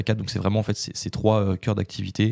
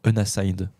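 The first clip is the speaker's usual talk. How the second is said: unassigned said the English way, in an English accent; English-accented word; slower than usual. Shown as a demonstration. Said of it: "J'ai pris l'accent, l'accent anglais".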